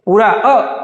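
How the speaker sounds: अ said short, mouth half open; teacher showing the half-open अ; vowel demo. Shown as a demonstration. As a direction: sound out अ deliberately. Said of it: "आ बोलते हैं तो मुंह खुला रहता है".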